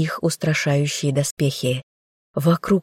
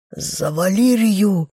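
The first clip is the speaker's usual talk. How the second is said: a rasped battle cry, lightly voiced driver; hoarse rasped cry; 2 semitones higher, slower than usual. A narrator's reading. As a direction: croak it out as you strike. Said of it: "прохрипел возничий".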